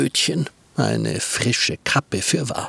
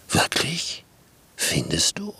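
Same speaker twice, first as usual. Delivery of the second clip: whispered, low, worried wolf; the wolf dismayed, low and whispered; startled wolf; 6 semitones lower, 4 dB quieter than usual. Acted. Wolf shocked.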